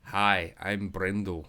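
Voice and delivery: amateur attempt at a Scottish accent; brief Scottish accent demo. Shown as a demonstration. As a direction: try on a Scottish accent for a greeting. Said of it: "want me to do a Scottish accent".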